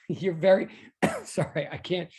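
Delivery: breaking up with laughter; too tickled to finish reading; flustered, laughing apology. Real, not acted. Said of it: "I'm laughing at the compliment".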